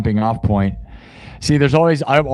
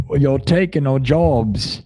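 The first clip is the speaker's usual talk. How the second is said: put-on terrible Australian accent; slower than usual. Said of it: "that's terrible Australian accent".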